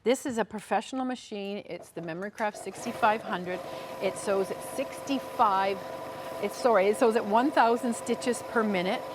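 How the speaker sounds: upbeat sales pitch; home shopping host. Acted. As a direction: sell the machine with enthusiasm.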